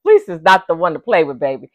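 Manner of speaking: a hint of a coaxing prison boss; lightly voiced menacing come here; quoting Fleece. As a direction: lure him in, half playful. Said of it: "he used to tell him".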